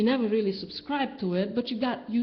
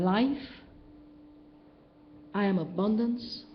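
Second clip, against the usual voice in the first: quiet affirmation; 3 semitones higher, 4 dB quieter than usual. Retold or imitated. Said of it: "you say".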